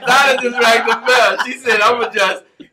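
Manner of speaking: very high, loud squeaky little-spirit voice; brownie voice. Pretend. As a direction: go up into a tiny house-spirit squeal. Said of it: "That's the brownie voice right there".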